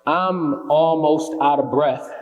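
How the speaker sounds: slow, deliberate spoken-word opening line; poem opening. Acted. Poet opens The Chase for the audience, slow and deliberate. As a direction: start the poem in earnest, stretching the words. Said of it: "But that was the poem".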